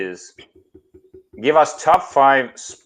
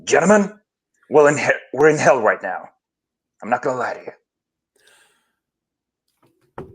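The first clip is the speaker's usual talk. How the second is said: coach speech. Retold or imitated. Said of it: "I'm gonna try to do the speech".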